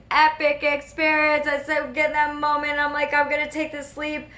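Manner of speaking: high, energised storytelling; excited recounting. Real, not acted. Skydiver reliving the moment she takes the leap, excited recounting.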